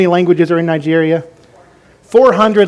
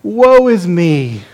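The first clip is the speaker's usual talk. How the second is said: woe is me; much slower than usual. Shown as a demonstration. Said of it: "you wanna say, like".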